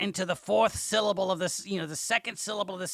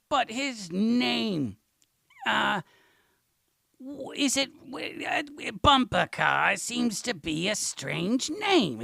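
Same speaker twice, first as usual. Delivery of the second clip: hesitant relative; 4 semitones higher, much slower than usual. Retold or imitated. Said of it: "And they're like".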